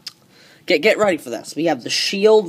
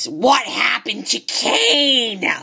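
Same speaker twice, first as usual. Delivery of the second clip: mock scream; 6 semitones higher, much slower than usual. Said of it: "and then she screamed".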